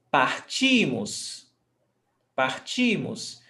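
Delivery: partimos stressed on the middle "ti"; stress before last. Shown as a demonstration. Teacher modelling the "nós" form, penultimate stress. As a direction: draw out the "ti" in partimos, light ending. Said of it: "Stressed syllable before last".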